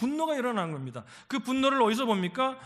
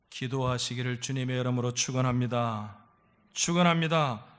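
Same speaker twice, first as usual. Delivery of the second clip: low, solemn benediction; low liturgical wish to the congregation; pastoral blessing; 8 semitones lower than usual. Real, not acted. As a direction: pronounce the blessing low, then firmer.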